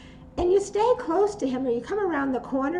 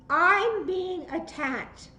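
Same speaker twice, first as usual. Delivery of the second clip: firm call; 4 semitones higher, much slower than usual. Shown as a demonstration. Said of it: "Everybody say".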